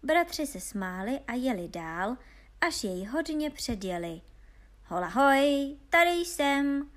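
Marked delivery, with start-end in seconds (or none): 4.9-6.9 loud, high halloo; drawn-out storybook hail; calling after them. A narrator's reading. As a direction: holler slowly so they hear you ahead. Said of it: "volal za nimi zase hloupý Honza".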